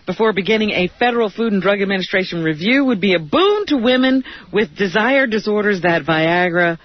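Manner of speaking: brisk start in a newsreader's cadence; news read. Real, not acted. Co-host resumes the drug trial story, news read. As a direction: carry on reading the report over the interruptions.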